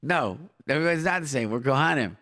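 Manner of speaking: normal talking voice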